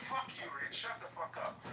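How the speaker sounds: high-pitched mock telling-off; retold angry outburst. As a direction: imitate someone cursing you out. Retells host cursing him out.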